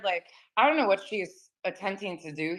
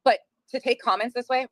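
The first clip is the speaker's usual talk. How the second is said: talking while chewing candy; words round a mouthful; mouth full; 4 semitones higher than usual. Real, not acted. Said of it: "Sorry, I'm eating Swedish fish".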